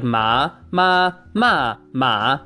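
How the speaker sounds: "ma" said in different tones; Mandarin tones. Shown as a demonstration. Teacher showing ma in the Mandarin tones. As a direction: sing ma through the four tones. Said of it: "if you say it like".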